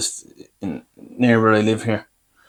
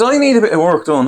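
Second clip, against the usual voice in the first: higher mimicked dentist request; re-quote her in a raised pitch; repeated dentist quote; 7 semitones higher, 3 dB louder than usual. Patient recounting the dentist's request, higher mimicking voice.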